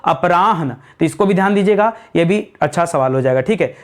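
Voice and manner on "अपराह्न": अपराह्न with ह audible before न; lower, falling answer अपराह्न, a-pa-raah-na; ह then न. Shown as a demonstration. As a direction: model अपराह्न carefully, long रा then ह. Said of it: "क्या करेंगे दोस्तों?".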